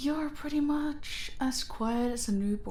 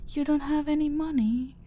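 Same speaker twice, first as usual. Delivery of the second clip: mock surprise; 5 semitones higher, faster than usual. Villain mocking captive.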